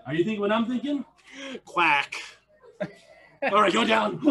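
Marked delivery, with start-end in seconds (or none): 1.6-2.1 sudden, punchy quack; duck quack. Shown as a demonstration. Coach offering something fierce as a joke, duck quack. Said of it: "other animal noises".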